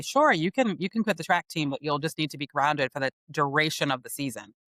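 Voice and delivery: breezily calm mock agreement, then matter-of-fact; calm retold mom. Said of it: "she just said very calmly".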